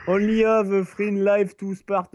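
put-on slow English accent, French-tinged; English accent attempt. Reading the game's rules to friends, rough English accent. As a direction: read it out slowly in a shaky attempt at English. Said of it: "c'était mon accent anglais".

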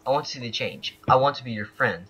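song words recited without singing; reading out lyrics. Shown as a demonstration. Player showing teammates the friendship song, spoken recitation. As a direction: read the lyrics line by line. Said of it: "I'll read them, I won't sing them".

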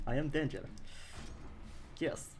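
playful mock Russian accent. Streamer repeating the Russian boast, in a mock Russian accent. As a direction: imitate a Russian, amused. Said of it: "A Russian person just tunes into the stream".

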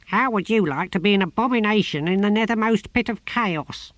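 the tortoise god cursing the gardener; furious tortoise god. A narrator's reading. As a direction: curse him with divine contempt.

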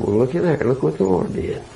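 low, unruffled remark; very calm. Retold or imitated. Driver looking at his wrecked car, very calm. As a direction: take it in stride, lightly acted calm. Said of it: "got out very calmly and said".

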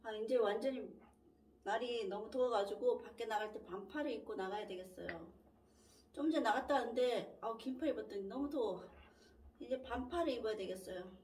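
words muffled by food; talking while chewing. Real, not acted. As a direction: mouth partly full of food. Seen 0: Took a bite just before; mouth looks full while talking early.

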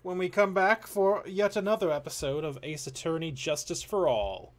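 drawn out, high announcer sign-off. Acted. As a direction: stretch it like a show host.

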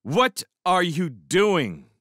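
high, drawn-out indignant question; indignant demand. A narrator's reading. Rancher confronted in a fight, indignant demand. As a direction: demand it, each word stretched out.

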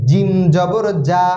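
"জিম জবর যা" with a firm, heavy j and held m; heavy, thick jim. Shown as a demonstration. Teacher showing the heavy letter, "জিম" said with a thick j. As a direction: press hard on the j of "জিম" and "যা". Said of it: "জিমের উচ্চারণ একটু ভারী হবে, মোটা হবে".

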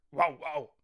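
a casual bark impression in words; mock dog bark. Shown as a demonstration. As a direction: say "Wow, wow." as a light imitation of a German dog barking. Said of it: "this is how bark in German goes".

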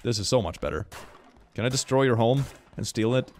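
normal talking voice

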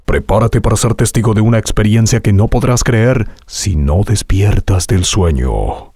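energetic, driving trailer read; electric trailer voice. Shown as a demonstration. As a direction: keep the energy up. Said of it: "Ir probando diferentes intenciones".

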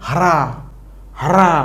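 হারা with a full h sound; wrong হারা. Shown as a demonstration. Teacher shows the wrong way to say হ্রা. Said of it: "এইভাবে বলতে পারবো না".

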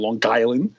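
Long Island said as Lawng Guyland, linked with a hard g; Long Island with a thick Long Island accent; New York accent. Shown as a demonstration. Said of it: "or as we say out on Long Island".

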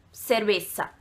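"cerveza" as "servessa"; no Spanish TH in "cerveza"; Argentine S sound. Shown as a demonstration. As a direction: say "cerveza" with S for both C and Z. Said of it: "não tem nesse da, da Argentina".

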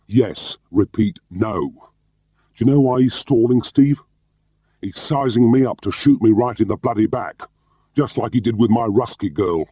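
high, loud and slowed, wound up to breaking point; agitated high outburst. A narrator's reading. Tarr to McElvore, crowing that Percy wants him shot, high and agitated. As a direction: drag each word out, high and heated, nearly unhinged. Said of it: "he cried".

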